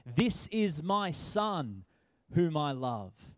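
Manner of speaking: slow, solemn heavenly voice; a lightly voiced proclamation from above. God speaking at the baptism, slow and solemn. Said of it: "a voice from heaven said".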